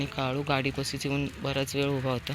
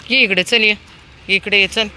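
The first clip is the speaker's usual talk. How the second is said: calling a dog; 5 semitones higher, 7 dB louder than usual. Real, not acted. Calling dogs over.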